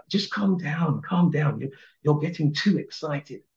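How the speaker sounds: a hint of a dismissive teacher; mimicking a condescending teacher. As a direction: talk down to him like a teacher would. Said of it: "the same thing that a teacher would say".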